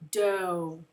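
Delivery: "dough" with a drawn-out long O. Shown as a demonstration. Teacher sounding out the second syllable, long O in "dough". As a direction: hold the O in "dough" so it says its name. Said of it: "Is it making a long O".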